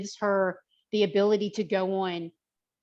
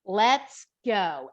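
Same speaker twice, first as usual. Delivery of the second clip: slow, firm pledge with raised pitch; confident energy; much slower than usual. Retold or imitated. Trainer lending a struggling client strength, confident energy. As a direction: stretch it out with steady confidence. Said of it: "that energy of confidence".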